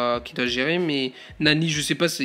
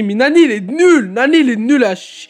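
high, loud swooping yell; furious complaint; 7 semitones higher, 10 dB louder than usual. Real, not acted. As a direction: shout in disgust at a useless teammate. Ranting at bad teammate.

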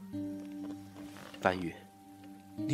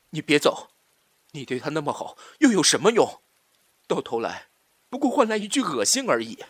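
hurt plea rising to loud bitterness; bitter outburst; 5 dB louder than usual. Acted. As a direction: throw it bitterly at someone walking out. Quarrel, begging then bitter. (激动又怨恨地质问)

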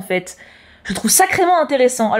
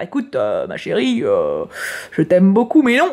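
much lower, deadpan father voice; stern dad; 4 semitones lower than usual. Retold or imitated. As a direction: drop low like a patient but firm dad. Father voiced replying to daughter.

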